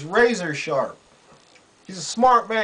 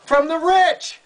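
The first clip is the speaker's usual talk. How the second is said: much higher, pushed exclamation; indignant punchline; 10 semitones higher, 4 dB louder than usual. Real, not acted. Host exposing where the congressman gets money, indignant punchline. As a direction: throw out the answer high and emphatic. Answers own pointed rhetorical question.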